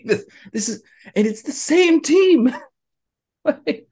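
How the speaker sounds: high, laughing, incredulous; can't believe it, laughing; laughing disbelief. Real, not acted. Friend mocking the coach's second season, laughing disbelief.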